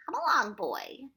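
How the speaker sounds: high, loud, slow order; impatient order to a boy, drawn out; snapped command. A narrator's reading. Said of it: "the Proc snapped".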